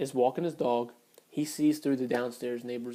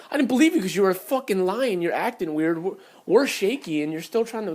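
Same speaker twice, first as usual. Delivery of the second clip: retold angry comeback, voice raised; higher, heated accusation; arguing, yelling; 5 semitones higher, 3 dB louder than usual. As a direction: fire back as in a remembered row. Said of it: "We start arguing, yelling".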